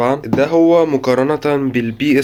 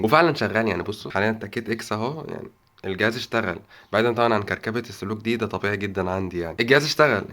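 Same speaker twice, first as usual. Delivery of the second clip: noticeably softer, keeping it down; hushed talk; 7 dB quieter than usual. Real, not acted. Early morning vlogger to viewers, hushed and quiet.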